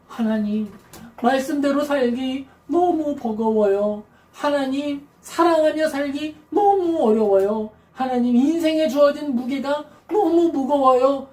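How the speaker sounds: slow, tired plea to God; weary prayer. Retold or imitated. Believer praying to God, slow and weary. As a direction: let the burden weigh on each word. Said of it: "라고 할 때".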